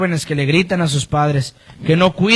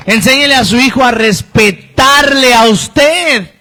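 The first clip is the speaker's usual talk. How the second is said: forceful exhortation; 3 semitones higher, 3 dB louder than usual. Real, not acted. Preacher exhorts parents forcefully.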